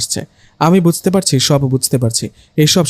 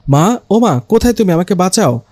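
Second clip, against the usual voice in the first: panicked; 4 semitones higher than usual. Acted. Calling mother for help.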